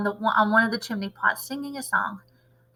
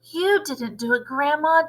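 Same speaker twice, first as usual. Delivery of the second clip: shouting back; 5 semitones higher than usual. Acted. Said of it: "George shouted back to her".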